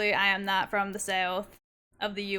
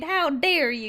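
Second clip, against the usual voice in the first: 1 mock indignation; 4 semitones higher, 4 dB louder than usual. Mock outrage at raider.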